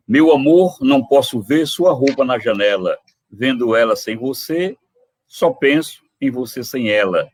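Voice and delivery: playful recital building to the punchline; poem recital. Acted. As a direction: deliver the verse for the joke. Recita trova de humor. (declamando trova humorística)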